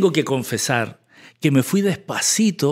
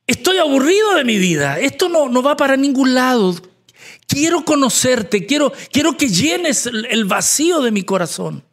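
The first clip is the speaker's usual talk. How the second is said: higher-pitched, earnest plea to God; pleading prayer; 6 semitones higher than usual. Acted. Weary believer asks God to fill the empty heart, pleading. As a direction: cry out to God, weary of this life.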